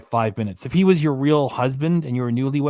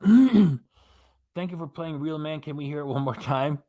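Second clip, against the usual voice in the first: quoted catchphrase; slower than usual. Retold or imitated. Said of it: "quoting the video's catchphrase".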